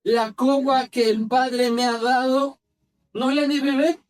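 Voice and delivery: slow, deliberate question from scripture; unhurried quoted question; measured scripture reading. Acted. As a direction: read it slowly, phrase by phrase. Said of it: "cómo se imagina esta escena".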